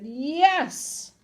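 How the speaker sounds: insist, stretching the word; firm insistence. A narrator's reading. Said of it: "The man said".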